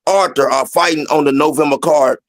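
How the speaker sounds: slow, measured delivery with pauses between phrases; slow motion. Shown as a demonstration. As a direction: spell it out slowly and deliberately. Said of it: "Let me say it in slow motion".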